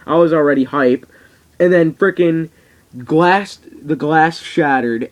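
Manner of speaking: glass shatters and he can't contain himself; real excitement. Real, not acted. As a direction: shout it like the crowd just popped. Reliving Stone Cold's surprise entrance.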